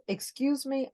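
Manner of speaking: "Excuse me" pitched high, clipped and indignant. Retold or imitated. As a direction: go up high on "Excuse me" like you're offended. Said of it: "let me lower my voice".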